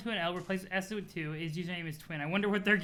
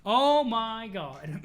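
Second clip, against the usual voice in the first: laughing; 2 semitones higher, 4 dB louder, much slower than usual. Real, not acted. Reacting to a joke.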